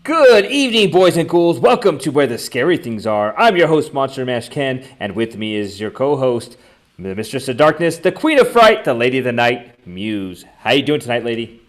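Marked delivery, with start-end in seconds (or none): 0.0-4.9 high, loud spooky host opener; hammy horror host greeting; jack o lantern voice. Acted. Host intro redone after restart. 5.0-10.4 announcer. Acted. Introducing co-host with titles.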